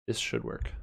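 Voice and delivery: whispered to himself; whispering. Real, not acted. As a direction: breathe it out, unvoiced. Repeats line, then whispers it.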